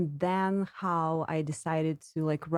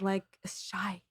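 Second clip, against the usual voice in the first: shy; 5 dB quieter than usual. Retold or imitated. Recalls being a shy teenage girl.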